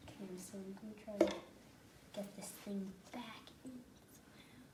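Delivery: fading unvoiced whisper. Real, not acted. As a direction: whisper it, trailing away. Whispered while handling.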